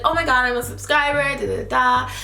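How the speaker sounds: high gushing fan imitation; excited fan. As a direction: squeal it like a starstruck fan.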